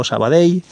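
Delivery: Sabadell ending in a y glide; final ll as y. Shown as a demonstration. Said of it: "como una L o como una Y".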